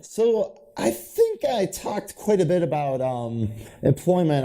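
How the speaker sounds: slow, winded and breathless; tired, short of breath. Real, not acted. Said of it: "I'm almost out of breath right now".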